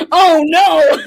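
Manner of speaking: loud laughing wail; laughing dismay. Retold or imitated. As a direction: burst out through laughter. Seeing resemblance to Inuyasha.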